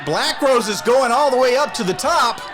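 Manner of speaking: building excitement call; wrestling commentator. Real, not acted. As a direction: hype the high-risk move. Climbing top rope call.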